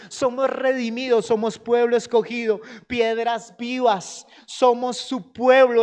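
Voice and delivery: loud, emphatic preaching of identity; fervent preaching. Acted. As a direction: proclaim each line to the congregation. Preaches at full force. (predicación fervorosa y fuerte)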